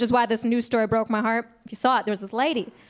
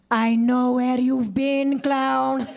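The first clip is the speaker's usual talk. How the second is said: mock mom accusing; 3 dB louder, much slower than usual. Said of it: "she just went".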